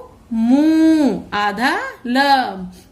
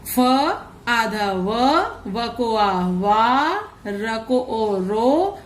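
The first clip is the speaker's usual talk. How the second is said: slow letter-by-letter spelling; much slower than usual. Shown as a demonstration. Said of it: "तो चलिए, इनको पढ़ते हैं।".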